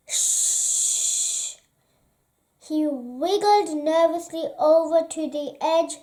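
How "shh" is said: unvoiced hush; shushing. A narrator's reading. Narrator hushing the child listener, whispered.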